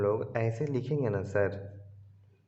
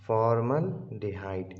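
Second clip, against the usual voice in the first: spelled out slowly; slower than usual. Shown as a demonstration. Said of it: "आराम आराम से बोल रहा हूँ".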